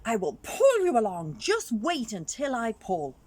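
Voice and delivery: Chameleon calling to Leopard while tying the rope. Acted. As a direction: call up to Leopard with a bold boast.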